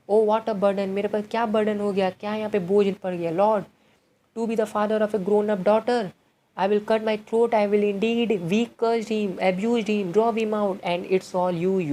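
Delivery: loud, high, exasperated rant; raging father. Acted. Chubukov blaming Natalia, loud exasperated rant. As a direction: throw up your hands and rant. Father rants at daughter in play.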